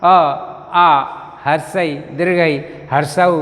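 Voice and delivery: हर्षई read the Hindi way as harsh-ai; quick Hindi reading of the same vowel names. Shown as a demonstration. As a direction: contrast with the Bengali names. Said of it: "यदि इसे हम हिंदी में पढ़ें तो कैसे होगा?".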